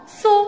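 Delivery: "so" said alone as one blended syllable; syllable demo. Shown as a demonstration. Teacher showing how S and O are pronounced, syllable demo. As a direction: model "so" by itself for learners. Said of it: "S O se prononce".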